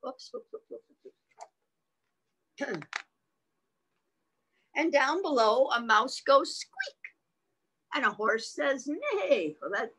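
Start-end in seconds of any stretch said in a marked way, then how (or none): 0.1-2.9 small animal noises. Acted. Imitated small animal noises down below. 4.8-9.5 animated reading with animal words acted out; expressive read-aloud; picture-book reading. Reads picture book to child.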